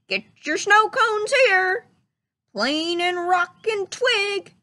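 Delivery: high, loud goofy holler; Goofy shouting. Acted. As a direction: hawk snow cones like Goofy. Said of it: "Goofy shouted".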